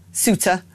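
Ceuta said SOO-tuh; Ceuta in two beats with no E; variant pronunciation. Shown as a demonstration. Trying rival pronunciations in turn.

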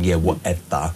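低沉、不屑的少女腔; petulant teenager. Retold or imitated. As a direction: toss it off like a sulky teen brushing you off. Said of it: "imagine some sort of petulant teenager".

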